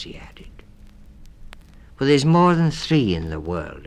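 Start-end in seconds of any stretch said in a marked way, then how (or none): 2.0-3.9 objecting. A narrator's reading. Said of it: "objected Missus Mouse".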